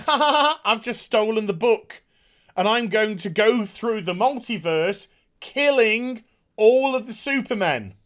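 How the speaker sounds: mock evil laugh into a boast; gloating villain. Reviewer playing the villain announcing his plan, mock gloating. Acting Lex Luthor gloating.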